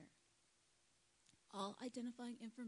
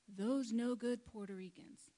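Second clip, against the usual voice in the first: louder, slower quote of a disdainful driver; retold contemptuous remark; 2 semitones higher, 8 dB louder, slower than usual. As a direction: quote the scornful cabbie, drawn out and emphatic. Retold cab driver's slur.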